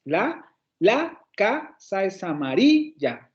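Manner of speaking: slow, flowing, stress on "casa" and "amarilla"; smooth correct reading. Shown as a demonstration. Teacher models the natural reading, slow and smooth. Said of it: "No hacemos eso en español".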